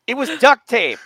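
confused parent. Retold or imitated. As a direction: act the puzzled parent.

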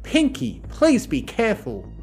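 high-pitched worried warning; admonishing. A narrator's reading. Twilight pulling Pinkie away from danger, admonishing. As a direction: caution her with lifted pitch. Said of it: "Twilight admonished".

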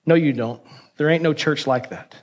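lightly acted disbelief; mocking. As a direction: dismiss it with understated mockery. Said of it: "in a mocking way says".

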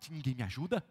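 hammed-up victim lament, building to a slow wail; tragic heroine sorrow. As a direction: wail like a melodramatic martyr. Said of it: "ela tem mentalidade de vítima".

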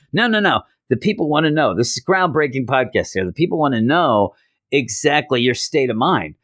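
high, pushy insistence; won't take no; insistent reporter. Retold or imitated. Jonah insists on the interview.

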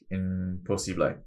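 slow, soft mock Spanish accent; bad Spanish accent. The body quitting on flatlined cortisol, in a bad Spanish accent. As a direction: draw it out in a badly faked Spanish accent. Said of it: "that was a really bad Spanish accent".

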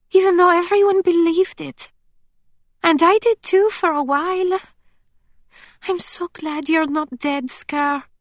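put-on high young woman, relieved; Emily's voice. A narrator's reading. Friend relieved Scarlet is alive, high voice. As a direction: gush a little over her friend.

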